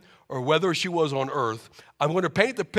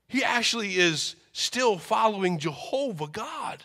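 overjoyed mother; 4 semitones higher than usual. Acted. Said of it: "mother reacts to son".

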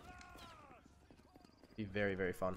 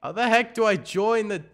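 louder, higher puzzled question; exasperated outburst; 7 semitones higher, 8 dB louder than usual. Real, not acted. Gamer hunting for the voice channel, exasperated. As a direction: burst out, baffled by the menu. Stuck finding the voice chat.

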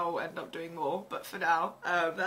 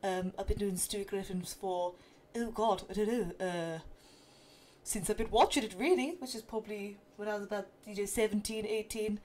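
mild Stewie-style voice; Stewie Griffin impression.

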